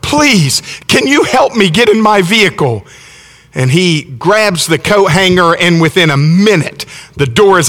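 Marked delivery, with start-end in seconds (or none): 0.0-2.8 lightly acted plea for help; retold desperate plea. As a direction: retell her begging a stranger for help. Desperate mother begs a stranger.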